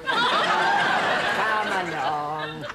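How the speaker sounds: put-on sing-song coaxing as if feeding a toddler; mother spooning food into a baby's mouth; baby talk. Mother coaxing her grown son to eat, in mock baby talk.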